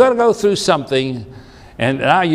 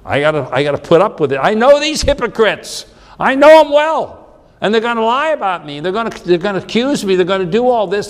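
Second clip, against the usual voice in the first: Jesus voicing his fear of the coming beating, faster and higher; agitated Jesus; 4 semitones higher, faster than usual. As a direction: let the dread build up and spill over. Jesus foreseeing his suffering.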